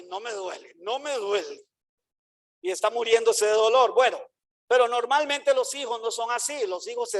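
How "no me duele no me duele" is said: stubborn denial. Retold or imitated. Proud child denying pain.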